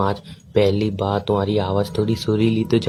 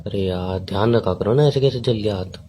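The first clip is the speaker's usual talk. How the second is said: mildly tender; 3 semitones lower than usual. Real, not acted. Boyfriend hearing of a burnt hand, mildly tender. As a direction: gently tell them to take care. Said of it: "बोला तो मैंने अभी इतने प्यार से".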